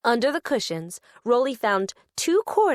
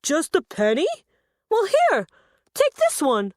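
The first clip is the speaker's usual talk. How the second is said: kind offer; 4 semitones higher, 3 dB louder than usual. Acted. Muggo offers a penny.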